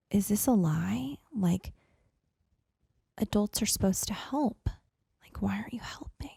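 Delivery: disbelieving whisper. Retold or imitated. Inner disbelief toward mom, retold.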